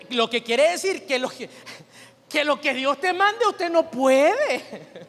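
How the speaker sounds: emphatic preaching. Real, not acted. Preacher stressing a point.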